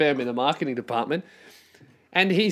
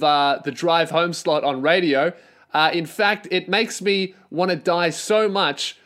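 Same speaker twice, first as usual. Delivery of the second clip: hammed-up radio host. Imagined drive-home show, over-eager cheesy DJ. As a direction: pump it up like a cheesy DJ. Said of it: "And then I'd be like".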